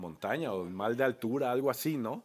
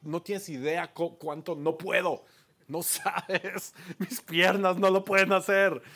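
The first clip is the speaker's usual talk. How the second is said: bawling; 6 semitones higher, 3 dB louder, slower than usual. Retold or imitated.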